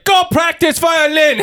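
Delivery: high, slow put-on Asian accent; high accented scolding; mock Asian mother. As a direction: bark the order like a strict Asian mom. Mock Asian mother ordering child.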